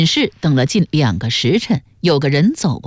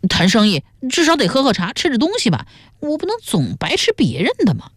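wheedling, pestering; 8 semitones higher, faster than usual. A narrator's reading. Son begging mother for tea money, wheedling. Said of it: "孙元在他臂边缠磨说".

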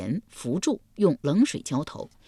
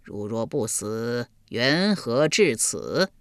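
eerie ghost voice; 4 semitones lower, slower than usual. Acted. Ghosts answer eerily.

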